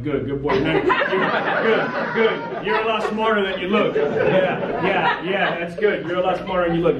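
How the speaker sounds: laughing, talking down like to a pet; patronizing praise. Retold or imitated. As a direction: pat him on the head with your voice. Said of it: "I'm like".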